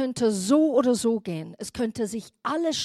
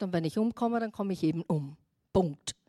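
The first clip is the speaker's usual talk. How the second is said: read past quickly; 4 semitones lower than usual. Shown as a demonstration. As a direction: toss off "Und wenn ich umkomme" lightly. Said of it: "liest man so schnell durch".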